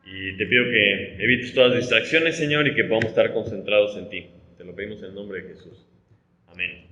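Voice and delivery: soft, low closing prayer; hushed reverent prayer voice. Real, not acted. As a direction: pray quietly to close before teaching. Closing prayer before the sermon.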